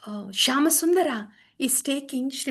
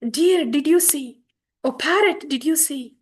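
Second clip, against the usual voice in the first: lightly raised, louder calls to the deer and parrot; Chaitanya calling to animals; 3 semitones higher, 4 dB louder than usual. Acted. Chaitanya asks deer and parrot if they saw Krishna, searching call. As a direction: ask the forest creatures, searching. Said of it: "going through the Vrindavan like that".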